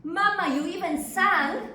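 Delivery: can't believe mother ever sang; astonished. Acted.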